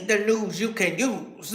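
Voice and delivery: low, slow announcer tagline; announcer slogan. Acted. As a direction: sell it like a TV slogan. Announcing segment.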